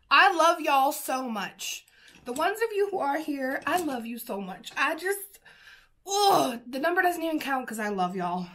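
emphatic, affectionate Southern lilt; Southern accent. Real, not acted. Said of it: "I don't know why I'm, like, full Southern right now".

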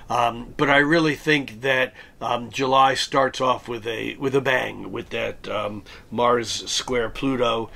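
hoarse, raspy voice from a cold. Real, not acted. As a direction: talk through a sore, raspy throat. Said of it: "my coughing and my raspy voice".

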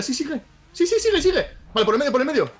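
high urging sigue, sigue; excited cheering. Real, not acted. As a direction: cheer it on, thrilled. Cheering progress on.

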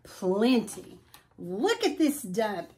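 a touch of a grumbling dog, grumpy; mild growl. Acted. Eddie the dog complains to Al about their room, mildly growled. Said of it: "Eddie growled".

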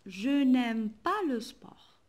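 slow, with "pas" weighted; slow model sentence with "pas" stressed. Shown as a demonstration. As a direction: say it slowly, landing on "pas". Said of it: "par exemple".

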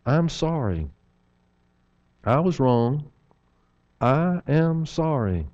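soft, slow and sincere; mean every word of it; a quiet, heartfelt apology after the snide version. Shown as a demonstration. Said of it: "we know what the word sorry means".

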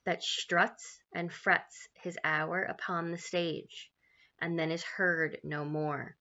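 slow, measured Shakespeare verse; slow mournful recital; soliloquy recitation. Acted. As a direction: weigh every word of the speech.

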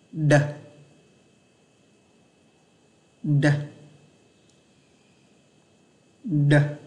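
"Đờ" with a light tongue press, eased out slowly; soft, slow-release đờ. Shown as a demonstration. Teacher models a sound for students, soft slow-release "Đờ". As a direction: say "Đờ" gently pressed, released without snap. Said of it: "ấn vào đấy nhẹ, đẩy ra chậm".

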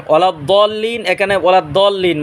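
"ওয়ালা দল্লিন" with plain thin d; mistaken DAL sound. Shown as a demonstration. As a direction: demonstrate the error, light d in "দল্লিন". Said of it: "মানে দালের উচ্চারণ করি".

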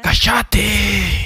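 high sharp mock yell of shut up; mock shout. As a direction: snap at the fake voice, high and loud. Yells at own fake voice.

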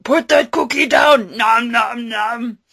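loud barked order, then munching; Schwarzenegger and Cookie Monster. Acted. Arnold ordering Cookie Monster to drop the cookie, loud. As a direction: bark the order like an action hero. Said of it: "Cookie Monster and Arnold Schwarzenegger".

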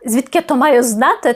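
mild annoyed snap at the question; angry. Shown as a demonstration. Teacher demos the phrase said in anger. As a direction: put some anger into it. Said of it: "е, зі злостю".

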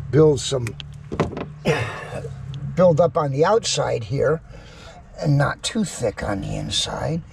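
breathing heavily while working; puffing between the words; heavy breathing. Real, not acted. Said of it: "I apologize for the breathing".

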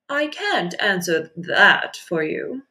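starfish voice. Acted. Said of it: "said the starfish".

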